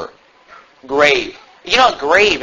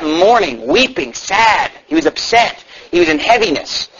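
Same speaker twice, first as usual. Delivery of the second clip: usual speaking voice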